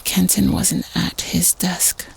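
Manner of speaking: slow, hushed reveal; spooky whisper. Acted. Scary tale at a sleepover, hushed whispered reveal. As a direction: let it drop to a whisper. Scary story told to friends.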